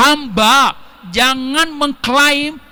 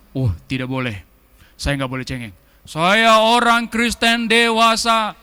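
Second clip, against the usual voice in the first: mock a prideful believer; proud Christian. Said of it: "orang Kristen itu kayak". (meniru orang Kristen yang sombong)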